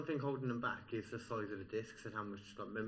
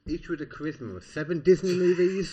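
higher, louder story line broken by a burp; burping while reading; 5 semitones higher, 10 dB louder than usual. Real, not acted. Co-host reading a story to a friend, burping mid-line. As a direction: burp through the end of the line. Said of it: "Did you just burp?".

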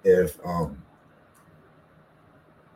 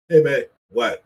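curt phone answer; 6 semitones higher, 6 dB louder than usual. Retold or imitated. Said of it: "you always answer the phone like that".

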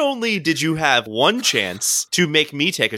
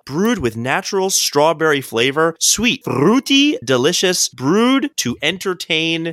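drawn-out promotional read; beer label read; 4 semitones higher than usual. Acted. Host presenting tonight's beer, mock ad read. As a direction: read the label like an ad, stretching key words.

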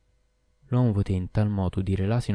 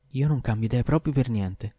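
curt refusal; 4 semitones higher than usual. A narrator's reading. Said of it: "tagliò corto la donna".

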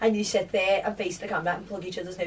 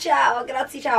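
hammed-up Scouse Italian; 4 semitones higher, slower than usual. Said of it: "in the most Scouse accent".

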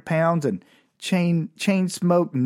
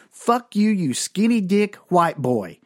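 angry hooker; 5 semitones higher, slower than usual. Retold or imitated. Hooker cussing him out.

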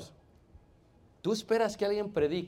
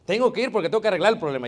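put-on old eager self; 2 semitones higher, 6 dB louder, faster than usual. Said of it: "decía".

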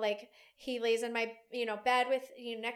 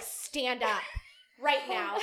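mildly aggressive retold command; firm mock order, only lightly forced; 3 dB louder, much slower than usual. Retelling the lady confronting Allie, mildly aggressive command. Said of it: "In a very aggressive way".

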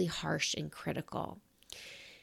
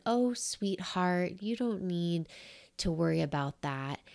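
lightly imitating a mentor's gentle comfort. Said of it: "her beautiful, gentle voice".

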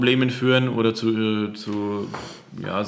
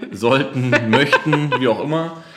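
laughing; 3 semitones higher, 5 dB louder than usual. Real, not acted. Embarrassed laugh about needs.

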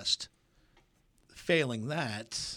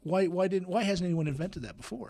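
emphatic excited question; 7 semitones higher, 6 dB louder than usual. Real, not acted. Host repeats the question emphatically.

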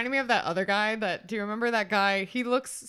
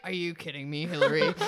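mock disbelief; 5 semitones lower than usual. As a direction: ask it as if fed up, laugh breaking in. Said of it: "his face is just like".

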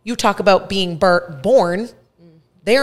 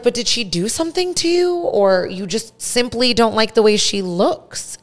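high-pitched, drawn-out retold challenge; pointed questioning; 5 semitones higher than usual. Granddaughter challenging the mean woman over her grandma, high pointed questioning. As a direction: press the question, pitched up and stretched at the end.

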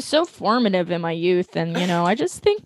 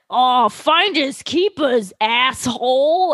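slow, sneering circus boss; gruff circus owner; slower than usual. Retold or imitated. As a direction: drawl it like a smug crook. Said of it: "the guy who owns the circus is like".

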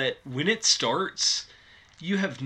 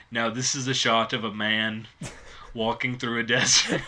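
Arnold Schwarzenegger. Retold or imitated. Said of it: "Arnold Schwarzenegger".

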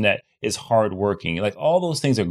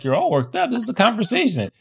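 incredulous retort; 12 semitones higher than usual. Retold or imitated. Quoting herself to her dad.

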